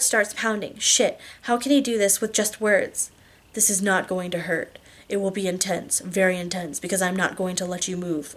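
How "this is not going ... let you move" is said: reassuring lover. Acted. Husband prepares wife for being restrained, quietly reassuring. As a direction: quietly reassure her while staying in control. Christian reassures and instructs her.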